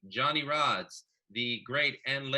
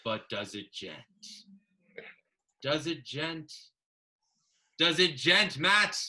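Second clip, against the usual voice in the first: mock poem recital. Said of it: "I'd like to recite for him the first stanza".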